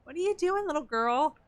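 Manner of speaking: high fond voice to the cat. Real, not acted. Asking the cat what she's doing, high and fond.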